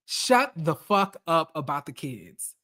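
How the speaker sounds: quietly exasperated threat; annoyed. Retold or imitated. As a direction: mutter it low, thoroughly annoyed. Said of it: "I was just so annoyed".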